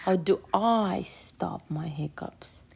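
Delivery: breathy whispered echo of the line. Acted. Little sister whispering the question along with the reader. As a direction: whisper it like a secret.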